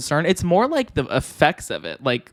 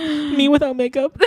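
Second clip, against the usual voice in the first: soda can voice; 11 semitones higher than usual. Pretend. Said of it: "I'm doing my soda can voice".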